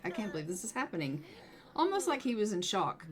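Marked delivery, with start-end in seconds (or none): 0.0-1.2 mock shocked mumble. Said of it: "standing there like".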